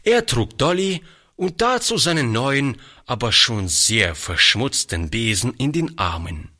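plain reading voice

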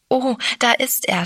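frightened stammer. A narrator's reading. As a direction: blurt it out in alarm. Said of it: "stammelte sie". (erschrocken gestammelt, höher)

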